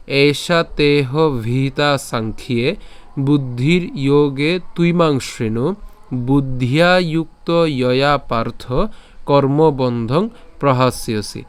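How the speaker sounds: slow, measured Sanskrit shloka recitation; verse recitation. Shown as a demonstration. Teacher modelling the whole verse for learners, slow recitation. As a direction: recite line by line with long, drawn vowels. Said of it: "আবার প্রথম থেকে যদি উচ্চারণটা করি".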